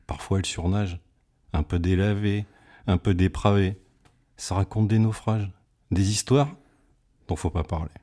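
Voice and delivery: measured verse with pauses between phrases; poem recitation. Acted. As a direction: recite it line by line as poetry. (récitation poétique posée)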